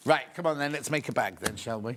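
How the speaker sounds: talking while munching a biscuit; crunching biscuit. Real, not acted. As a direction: crunch a biscuit between words. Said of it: "so excuse the crunching".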